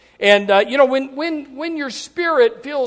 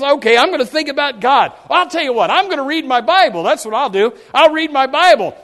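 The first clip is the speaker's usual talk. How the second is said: determined resolve, acted; 4 semitones higher, 5 dB louder than usual. Acts troubled person resolving to pray.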